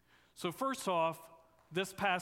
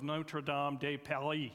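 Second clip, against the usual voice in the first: light mock French accent on Notre Dame de Paris; a playful hint of French accent; lightly put-on French accent for the name. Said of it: "That's my best French accent I have".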